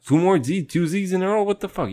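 high and loud, playing the confused stripper; mock stripper voice. Acting the stripper's reply.

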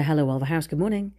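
lightly put-on switchboard greeting, lifting at the end; professional and polite. Daughter answering the hotel phone, professional and polite. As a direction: answer like a courteous receptionist. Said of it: "switches straight into professional and polite".

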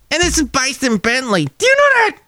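cartoon squeak voice; squeaky little character asking; high squeaky character. Second silly character.

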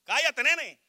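a mock Puerto Rican parent yelling, high and loud; imitated yell. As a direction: bark it like a boricua mom. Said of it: "Tú le has gritado". (grito de madre boricua imitado)

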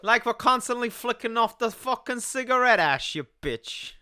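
put-on Italian-American wise guy; mock Italian accent. Explaining Italian finger flicks, mock Italian accent. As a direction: ham up an Italian accent, dropping away at the end. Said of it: "when you talk like this".

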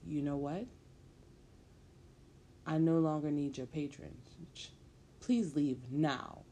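firm and stern, slowing hard on please leave now; a mother ordering a creep out, as stern as she can; sternest voice. Acted. Lelia orders the man to leave, sternly. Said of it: "in the sternest voice she can muster".

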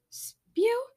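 high, shocked question; surprised. Acted. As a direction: gasp out his name. Magma recognizes lost brother.

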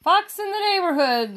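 high, loud alarm caw; cawing crows. Acted. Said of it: "they cawed".

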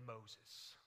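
low, flat-voiced one-word reply; deadpan parrot. A narrator's reading. Parrot tells the burglar its name, low and deadpan. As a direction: drop it like a punchline.

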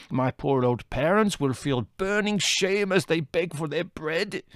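tragic lament. A narrator's reading. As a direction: wail out his ruin. Costi laments his ruin.

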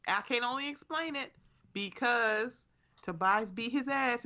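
ordinary talk

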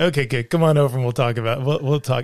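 put-on old Hollywood guy. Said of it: "Like old Hollywood guy".

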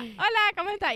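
high, loud little doll greeting; toy figure voice. Retold or imitated. Playing dolls with her son, high toy voice. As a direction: pretend to be a toy saying hello.

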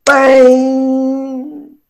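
ringing, held gong clang; long resonant "bem" like a bell; imitated gong. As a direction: strike a gong with your voice.

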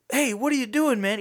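mock Dewey voice. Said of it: "he's like".

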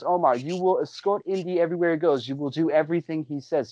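mildly imitated stern command; retold snapped order. Podcaster imitating the woman ordering Omar, mock snap. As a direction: order the servant about, lightly acted. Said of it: "snaps over and she goes".

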